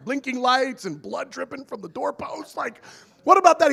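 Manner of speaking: hammed-up excited rant; comic escalation.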